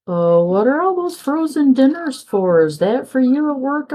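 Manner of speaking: a hint of a curious kid asking; quoting her daughter, lightly voiced curious daughter; daughter's voice. Daughter quoted asking about dinners.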